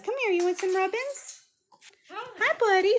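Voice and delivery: high-pitched cooing to a pet; pet talk. Real, not acted. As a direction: coax a little bird in a high sing-song. Cooing to her pet bird.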